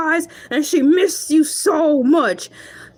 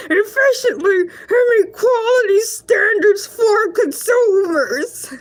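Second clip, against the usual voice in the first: reading it out while cracking up; giggling through the words; laughing read-aloud; 2 semitones higher than usual. Real, not acted. Reading AI text to viewers, laughing.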